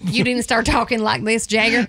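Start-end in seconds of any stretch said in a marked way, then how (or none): 0.7-1.5 teasing Southern twang; Southern accent. Acted. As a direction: put on a mock Alabama accent. Asks if accent was picked up.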